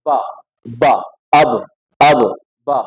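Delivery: deliberate b in با and اب, spaced for repetition; با and اب with inner lips. Shown as a demonstration. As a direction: drill با and اب, inner parts of the lips touching. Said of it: "اندرونی حصہ touch ہو آپس میں". (با اور اب، ہونٹوں کا اندرونی حصہ ملا کر)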